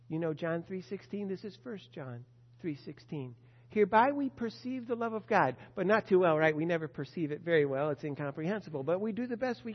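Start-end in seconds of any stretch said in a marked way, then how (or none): 3.7-5.6 declaiming scripture. Acted. Preacher reads scripture verse aloud.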